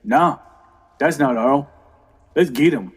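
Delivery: Sammy. Acted. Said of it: "And Sammy goes".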